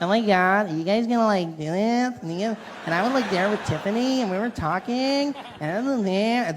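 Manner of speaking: put-on nasal Californian coastal girl; nasal speech. Comic mocking American girls who speak from the nose, nasal. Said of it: "women insist on speaking English from their nose".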